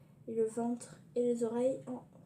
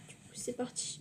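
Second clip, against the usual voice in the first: whispering; 7 dB quieter than usual. Real, not acted. Parents asleep, whispering.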